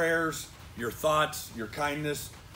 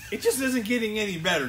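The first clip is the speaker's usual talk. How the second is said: laughing; 6 semitones higher, 3 dB louder than usual. Real, not acted. Laughing over bad luck.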